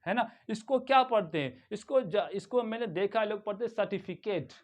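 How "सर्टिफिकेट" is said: "सर्टिफिकेट" ending in a long 'kayt'; wrong pronunciation demo. Shown as a demonstration. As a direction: say "सर्टिफिकेट" with last syllable like "Kate". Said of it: "गलत है".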